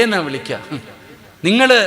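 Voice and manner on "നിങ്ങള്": high loud call of nimgal; old-time wife calling her husband, high and loud. Retold or imitated. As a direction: sing out the word like a wife calling.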